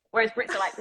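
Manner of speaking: ordinary talk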